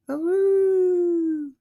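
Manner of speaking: loud high whoop; excited whoop. Real, not acted. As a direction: cheer it out. Cheering at a coonhound.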